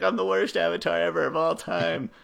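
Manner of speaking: high-pitched pity-party imitation; mock self-wallowing. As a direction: wallow theatrically in self-doubt. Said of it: "all in self-doubt and self-wallowing".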